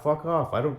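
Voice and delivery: sudden high, loud burst; shouted fuck off at the ex; angry shout. Real, not acted. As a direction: snap it out at her. Angry rant at ex.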